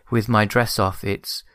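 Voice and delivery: very slow, drawn-out dreamy line; lightly imitating a dazed princess's dreamy delivery; slow, spaced-out quote with a pause before the last words; Audrey Hepburn's delivery. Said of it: "some of the line delivery".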